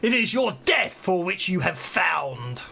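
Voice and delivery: slow, booming lich king; ancient rasping undead king. Acted. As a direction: intone it slowly like a risen dead king. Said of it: "A booming voice seems to emanate from the whole chamber as it demands".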